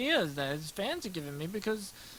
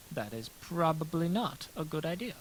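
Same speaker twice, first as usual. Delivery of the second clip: put-on voice; 6 dB quieter than usual. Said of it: "Maybe I should talk like this always".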